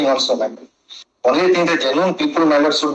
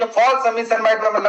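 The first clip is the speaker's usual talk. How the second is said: raised pitch, heated protest; 4 semitones higher than usual. Real, not acted. Counsel protesting to the judge, voice raised. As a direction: push back hard, pitch climbing. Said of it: "Please don't raise your voice".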